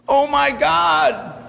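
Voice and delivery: high, slow, drawn-out cry of terror; terrified cry. Acted. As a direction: cry out as the bear's paw comes down. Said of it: "he cried out".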